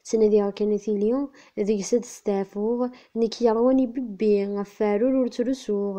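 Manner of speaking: steady rhythmic verse; poem recitation. Acted. (taɣuri n usefru s leɛqel)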